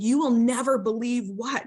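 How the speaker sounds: bursting to tell mom something big; excited child news. Retold or imitated.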